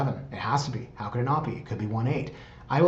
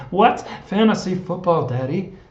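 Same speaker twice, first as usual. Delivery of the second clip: higher, louder put-on little girl voice; mock daughter voice, pitched up; impression of daughter; 7 semitones higher, 5 dB louder than usual. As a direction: imitate your kid piping up with a question. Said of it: "It's actually my impression of my daughter".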